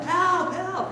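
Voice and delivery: high-pitched mock cry for help; mock yelling. Boy on the island hailing a passing steamer, mock high yell. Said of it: "he's yelling".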